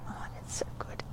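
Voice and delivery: breathy whispered sigh of relief. Real, not acted. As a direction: whisper it, melting into the stretch. Enjoying the stretch.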